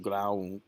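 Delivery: "ground" as "grah-oond"; two syllables. Shown as a demonstration. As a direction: split the vowel of "ground" in two. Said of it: "it is two syllables".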